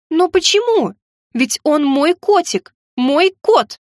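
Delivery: high, pleading protest. A narrator's reading. Heroine protests being told off. (высоким голосом, с протестом)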